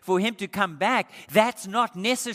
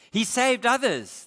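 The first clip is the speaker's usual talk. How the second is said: mocking; 5 semitones higher, 4 dB louder than usual. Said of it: "they mocked".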